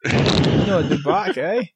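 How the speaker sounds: attempted Aussie with a questioning lift; Australian accent. Co-host rereads the letter as told, Australian accent. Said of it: "read that in an Australian accent".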